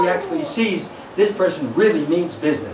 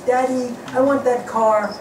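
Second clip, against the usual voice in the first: put-on child's whine; 4 semitones higher than usual. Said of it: "your little child says".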